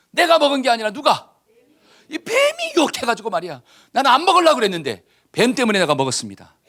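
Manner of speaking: mock indignant protest, high at first; excuse-making. Eve blames the serpent before God, protesting indignantly. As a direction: protest and pass the blame along. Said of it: "핑계의 원조".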